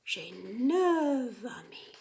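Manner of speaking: "neuf amis" slow, "neuf" ending in a V; V sound liaison. Shown as a demonstration. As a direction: turn the F of "neuf" into a V. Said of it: "changes to a V sound".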